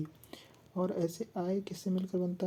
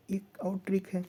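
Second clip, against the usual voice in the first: whisper. Real, not acted. Teacher shares a trick.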